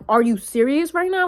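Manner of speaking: imitating a catcaller taking offence at being ignored; indignant catcaller. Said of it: "when he said that".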